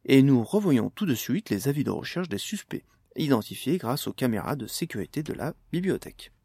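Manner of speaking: lightly voiced TV news anchor; news read. TV anchor reporting the attack to viewers, light news read. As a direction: read it like a mild evening news bulletin.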